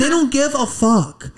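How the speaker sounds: don't stretched slow and high; stress on don't. Real, not acted. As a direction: lean hard on don't, drawn out. Emphatic slowed repeat.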